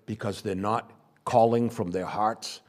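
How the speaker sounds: normal talking voice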